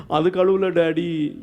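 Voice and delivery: put-on slow, drawn-out childish whine; mock crying child. Weeping daughter answering her daddy, mock tearful and slow. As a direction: imitate a tearful little girl, dragging the words. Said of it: "Catherine அழுகுறா".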